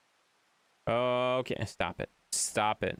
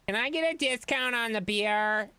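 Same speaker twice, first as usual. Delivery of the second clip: voiced chatter; 10 semitones higher than usual. Reading chat in put-on voice.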